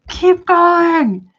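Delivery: loud, high cheer; egging them on. Retold or imitated. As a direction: call out to goad them on. Egging on the laughing men.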